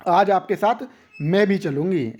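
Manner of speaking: pause, then press on "भी"; stress on भी. Shown as a demonstration. Teacher voicing someone asking to come along, stress on "भी". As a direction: insist on being included by stressing "भी". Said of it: "भी लगा के क्या कर दिया? उस वाक्य पे जोर दे दिया".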